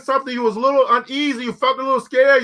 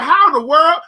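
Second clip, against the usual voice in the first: louder, astonished question; amazed onlookers; 3 semitones higher, 5 dB louder than usual. Retold or imitated. Preacher imitating amazed coworkers, astonished. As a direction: marvel at him. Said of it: "They be like".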